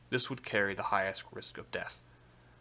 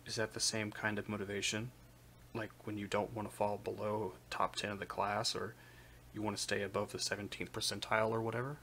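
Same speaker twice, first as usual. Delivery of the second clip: quiet; 7 dB quieter than usual. Acted. Fencer asks quietly.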